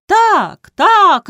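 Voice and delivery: high, loud roar of agreement; roaring crowd. A narrator's reading. The village meeting roars its agreement. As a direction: roar yes together. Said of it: "ревнула громада".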